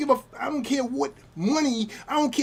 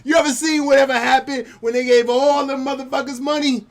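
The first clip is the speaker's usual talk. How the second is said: louder, higher, insistent question; emphatic repeat; 5 semitones higher, 7 dB louder than usual. Real, not acted. Man repeats his comedy-show question to the group, loud and emphatic. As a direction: ask it with real force, pitched up.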